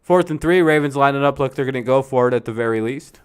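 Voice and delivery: play-by-play call opening high and loud; live play-by-play. Real, not acted. Calling fourth and three for viewers, live play-by-play. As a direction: call the down like a sportscaster.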